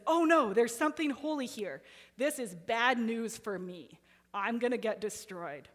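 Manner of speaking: a mock panic, rushed; freaking out. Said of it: "the unclean spirit freaks out".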